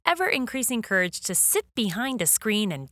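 dramatic trailer voice over music; announcer intro. Acted. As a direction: sell the show like a movie trailer. Podcast cold open over music.

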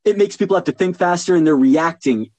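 rapid demonstration of quick talk; quick delivery. Shown as a demonstration. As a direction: speed it up to show fast talking. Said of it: "if you deliver quickly".

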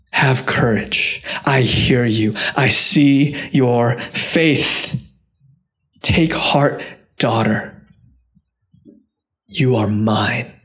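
slow, unhurried comfort with long pauses; gentle reassurance. Acted. Preacher as Jesus comforting the afraid woman, gentle reassurance. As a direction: ease down into calm, tender acceptance. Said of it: "I'm not gonna yell at you".

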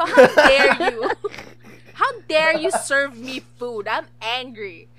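hammed-up indignation, slowing down; mock outrage. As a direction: play the offended diner, mock furious. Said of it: "Tapos sabi ko".

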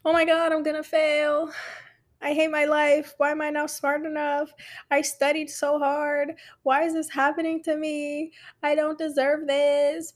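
wallow in pretend self-pity; hammed-up woe-is-me lament; mock crying. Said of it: "you're crying about it".

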